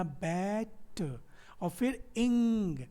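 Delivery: "बैट" drawn out, then "इंग" on its own; split by syllable. Shown as a demonstration. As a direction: break batting into "बैट" and "इंग". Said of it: "इसमें सिर्फ इतना".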